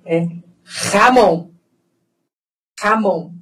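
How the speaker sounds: jamón with a throaty rasped j, like a Spanish kh. Shown as a demonstration. Teacher demonstrating Spanish "jamón" to students, throaty j. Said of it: "Aqui eu tenho a palavra".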